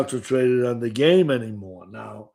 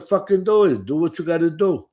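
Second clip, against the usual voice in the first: defiant retort; 6 semitones higher, faster than usual. Retold or imitated. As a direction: fire it back at him, daring him.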